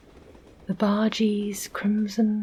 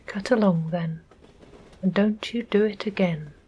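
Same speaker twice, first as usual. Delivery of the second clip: more gently; faster than usual. Acted. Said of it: "said the bargee more gently".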